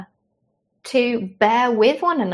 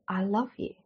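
tender; 10 dB quieter than usual. Pretend. Parent comforting angry children.

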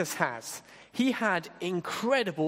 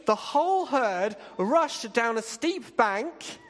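dramatic excited telling; 6 semitones higher, 3 dB louder than usual. A narrator's reading. Dramatic herd rush scene.

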